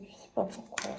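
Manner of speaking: breathy whispered aside to herself; whispered, half-laughing at herself. Real, not acted. Self-mocking aside about keeping lids.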